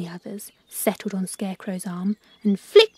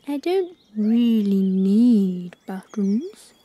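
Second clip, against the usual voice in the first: kindly; 4 dB louder, slower than usual. Acted. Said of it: "said Scarecrow kindly".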